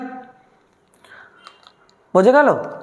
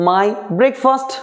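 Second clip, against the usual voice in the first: slow model sentence; 3 semitones higher, much slower than usual. Shown as a demonstration. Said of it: "প্রত্যেকটা ওই গঠন use করছি".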